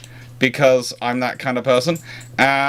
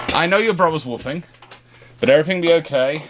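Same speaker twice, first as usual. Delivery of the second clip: reassuring pet talk; 5 semitones higher than usual. Real, not acted. Owner reassuring his poodle about her brother, high soothing. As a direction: soothe a nervous pup, lightly raised.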